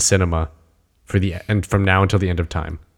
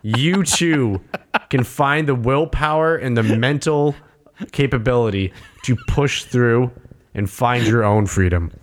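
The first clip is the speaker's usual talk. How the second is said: home shopping host; 3 semitones higher than usual. Pretend. TV sales pitch.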